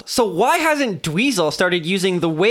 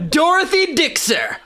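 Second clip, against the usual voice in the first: laughing; 9 semitones higher, slower than usual. Real, not acted. Reading the slang book.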